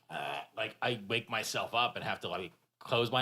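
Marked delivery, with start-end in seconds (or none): 0.1-0.4 soft, low open-mouthed snore; quiet throaty sleep noise, acted out; imitated snore. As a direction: mimic dozing off with a slack-mouthed snore. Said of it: "snoring and my mouth is just".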